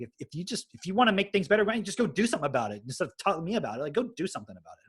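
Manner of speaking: retold exasperation, words rushing out; imitating annoyed mom. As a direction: mimic a mother who has had enough. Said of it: "she was getting mad at me".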